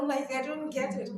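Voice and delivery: bursts out laughing, then pushes on; a real laugh of disbelief at the excuse. Real, not acted. Laughing at a defense of the indefensible, real amused laugh.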